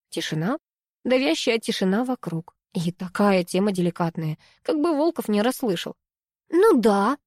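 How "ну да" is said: smirk. A narrator's reading. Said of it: "хмыкнула Аня".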